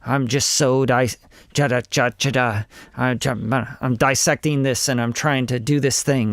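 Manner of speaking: low, mechanical recital; unfeeling delivery. Acted. Coach mimics a rapper dissecting the words, unfeeling. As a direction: recite it with no feeling, pitched low. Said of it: "the feeling is just not right".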